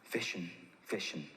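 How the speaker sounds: low, understated sage repeating himself; Bob Proctor. Retold or imitated. Bob advises the speaker, low understated sage voice. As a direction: intone it low like profound wisdom. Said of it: "this is gonna be profound wisdom".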